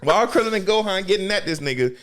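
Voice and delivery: usual speaking voice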